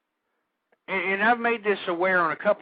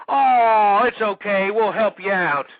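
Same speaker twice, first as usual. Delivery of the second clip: drawn-out loud "oh" of fake concern; mock sympathy; 2 semitones lower, 5 dB louder, slower than usual. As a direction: coddle them sarcastically. Mocks pampering of screw-ups.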